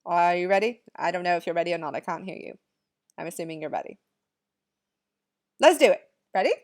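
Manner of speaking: mock English accent; amateur English accent, hammed up. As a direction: put on a playful English accent. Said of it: "say it with our best English accents".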